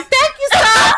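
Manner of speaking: high, loud, shouted thanks; mock-eager grateful shout. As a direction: blurt out gleeful thanks. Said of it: "Levon grabbed that bag like".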